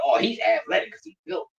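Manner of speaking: whispered mock of the critics; mocking quote. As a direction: sneer it under your breath. Mocking other people's opinion.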